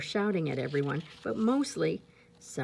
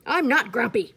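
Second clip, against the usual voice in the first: insisting; 5 semitones higher, 7 dB louder than usual. Acted. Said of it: "Jim insisted".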